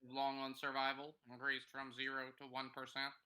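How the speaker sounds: booming metallic robot. Acted. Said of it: "in my robot voice".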